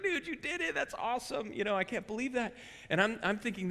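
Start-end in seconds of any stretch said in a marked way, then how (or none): 0.0-2.5 much higher, imitating kids cheering a prank; excited kids. Pastor imitates the students cheering the stuck elevator, high and excited. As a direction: squeal it like thrilled teenagers.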